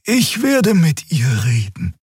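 high, slow, otherworldly and composed; calm high creature voice; Xea's voice. A narrator's reading. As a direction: lift the voice into the alien Draxül. Xea decides to handle guard.

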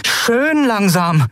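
high, very slow warning. Acted. Endriel warns pirates to move slowly, drawn-out warning. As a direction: draw it out as a caution. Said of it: "forderte Endriel".

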